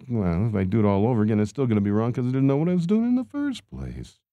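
complaining to the manager in a high whine; whiny protest. Retold or imitated. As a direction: whine it like a frustrated worker. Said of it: "And I'm like".

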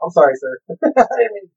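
imitated anxious apology, rising high; mock apology. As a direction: plead your excuse to a senior star. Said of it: "must have apologized to De Niro".

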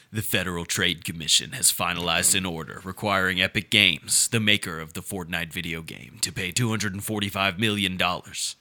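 low, sinister hacker read. Acted. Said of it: "I'm gonna put on a hacker voice".

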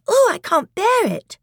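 high, loud wail; distressed wail. Acted. Lucy unable to bear the pulling, distressed wail. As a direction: cry out as if overwhelmed.

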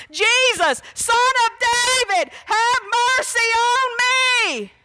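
high, pleading cry to Jesus; hollering for mercy. Retold or imitated. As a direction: call out desperately for mercy. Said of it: "he was hollering".

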